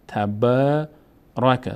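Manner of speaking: تبارک read slowly with the long a held; slow teacher reading of تبارک; slow recitation. Shown as a demonstration. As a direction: repeat تبارک slowly for the class.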